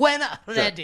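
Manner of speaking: crisp voice, W and R sharply bitten. Showing how the Star Wars officer pronounces the W and R, Grand Moff Tarkin impression. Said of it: "like the W and the R".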